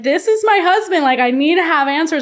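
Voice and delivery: high, loud, desperate plea; losing it. Retold or imitated. Wife demanding answers from her cheating husband, retold high and desperate. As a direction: beg for answers, frantic. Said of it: "I was just losing it".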